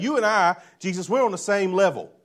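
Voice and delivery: lightly voiced Nicodemus, earnest and questioning; a hint of a curious Pharisee asking; voicing Nicodemus. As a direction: Nicodemus pressing Jesus for answers. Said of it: "here's what he's saying".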